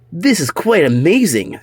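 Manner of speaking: high, wondering character voice; amazed dog voice. Acted. Orby amazed he can talk, high and wondering. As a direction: marvel at your own voice.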